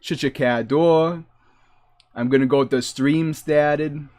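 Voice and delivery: put-on Boston accent slipping out. Streamer catches it from people back home, Boston accent. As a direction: talk like the Boston locals. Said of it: "I start talking like that".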